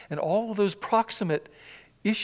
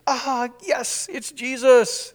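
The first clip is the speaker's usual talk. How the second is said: mock calm; 6 semitones higher, 6 dB louder, much slower than usual. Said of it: "Is that what they say?".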